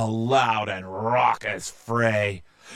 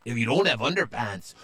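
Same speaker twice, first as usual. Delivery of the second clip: despairing pirate; 9 semitones higher, faster than usual. Acted.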